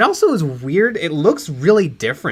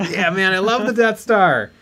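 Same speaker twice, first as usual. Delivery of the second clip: mock-excited fan, raised pitch; Patton Oswalt; 4 semitones higher than usual. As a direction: gush lightly like a fan. Acting the thrilled fan's reply.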